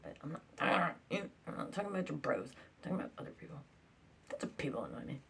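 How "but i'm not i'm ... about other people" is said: whispered retort. Retold or imitated. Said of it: "I'm like".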